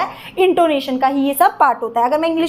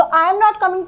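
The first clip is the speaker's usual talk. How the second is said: all of "I am not coming" emphasised, higher pitched; full focus; 4 semitones higher, much slower than usual. Shown as a demonstration. Teacher points out the focused phrase, emphatic "I am not coming". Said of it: "पे मैंने पूरा focus डाल दिया".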